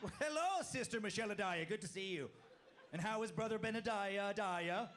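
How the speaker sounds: Amish sister voice. Pretend. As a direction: ham up a prim Amish woman. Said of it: "pretend ... they end every first name with Adaya".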